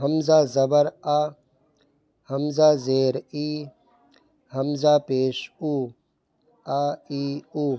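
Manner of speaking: slow, even syllable drill; drill reading. Shown as a demonstration. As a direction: read each vowel short and clean. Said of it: "پڑھیں".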